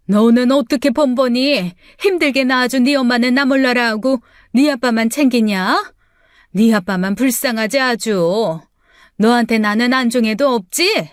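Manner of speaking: loud, sputtering furious rant; furious mother. Acted. Mother accusing daughter of favouring father, furious and loud. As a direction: explode at the ungrateful daughter.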